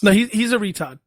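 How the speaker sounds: "retard" with a dropped R, Massachusetts style; Massachusetts accent. Shown as a demonstration. Correcting the co-host's word, in a Massachusetts accent. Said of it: "You just gotta say it with the accent".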